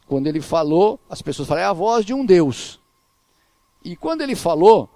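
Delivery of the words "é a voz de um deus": raised, louder quoted cry; crowd's acclamation. Retold or imitated. People acclaiming Herod after he spoke, raised retold cry. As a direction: imitate people crying out in praise. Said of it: "e o povo clamava".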